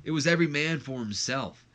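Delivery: excited high dude voice; laid-back dude, suddenly animated; RVD's voice. Retold or imitated. RVD reassuring Jeff backstage, excited dude. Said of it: "he goes".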